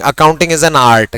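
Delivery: very slow, word by word; teacher dictating the definition again; slow dictation. Shown as a demonstration. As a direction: dictate it for writing. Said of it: "दोनों शब्द लिख रहा हूं".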